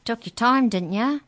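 loud, high, sarcastic creature voice; high squeaky sneer. Acted. The book elf mocks Trent, squeaky and loud. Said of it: "The book's voice was high and squeaky".

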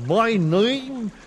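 slow, drawn-out worm voice; proud worm, every word stretched. Acted. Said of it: "said the worm".

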